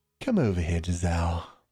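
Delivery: put-on nasty, vile, villainous voice. Playing through a game scene, voicing the father character: put-on voice for vile father. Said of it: "what kind of voice should I give this piece of shit?".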